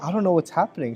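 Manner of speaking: a touch of tearful disbelief, retold; retold tearful bewilderment. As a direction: imitate someone bewildered through tears, lightly. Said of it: "she starts crying".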